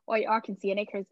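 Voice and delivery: badly faked Irish accent; attempted Irish accent. Shown as a demonstration. Host trying an Irish accent for listeners, badly faked Irish accent. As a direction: have a clumsy go at an Irish accent. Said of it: "let me try and do, um, an Irish accent".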